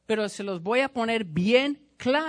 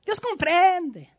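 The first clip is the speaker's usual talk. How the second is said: mock pitying preacher; 8 semitones higher than usual. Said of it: "De qué sirve que yo le esté diciendo".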